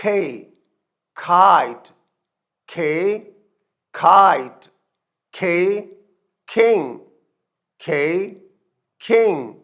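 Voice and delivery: each word said loud and clipped with a falling tune; letter, then the word called out loud; loud pronunciation drill. Shown as a demonstration. Teacher drilling voiceless sounds, loud. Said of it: "Next voiceless letter is T".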